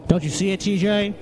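mock excitement.

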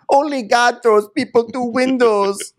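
slow, very high mock shriek; high-pitched imitation of a screamer; screaming argument. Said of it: "they're screaming at each other".

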